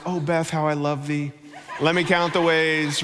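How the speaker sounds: hammed-up lovesick recital with a laugh; mock love poem. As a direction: tease like a mock-romantic poet. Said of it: "I left little notes around the house".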